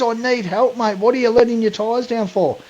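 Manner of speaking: high, strained mock voice of the panicking driver; mimicking the stuck bloke. Retelling the stranger on the beach in a high panicked mock voice. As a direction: pitch way up to play the desperate stranger. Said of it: "He says".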